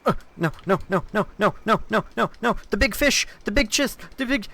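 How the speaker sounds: high, rising string of cries; panicked no. Real, not acted. Streamer panicking at a big fish in game, squealing. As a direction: squeal in alarm.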